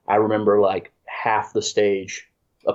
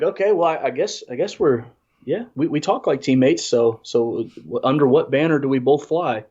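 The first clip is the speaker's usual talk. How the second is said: higher, hesitant and puzzled; bemused; 5 semitones higher than usual. Retold or imitated. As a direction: humor him, unsure. Bemused reply to Nubs.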